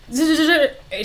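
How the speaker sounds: quick "duh" syllables mimicking typing; imitated keyboard clicking. Friend searching records on the keyboard, imitated clicking. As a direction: tap out typing with the voice. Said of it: "She just clicking".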